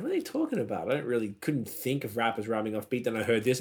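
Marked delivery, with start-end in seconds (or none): 0.0-0.9 puzzled. Retold or imitated. Retelling own confused reaction.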